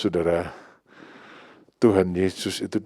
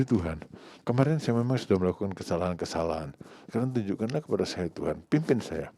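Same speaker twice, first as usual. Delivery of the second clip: soft prayer; 7 dB quieter than usual. Acted. Preacher voices a believer's prayer.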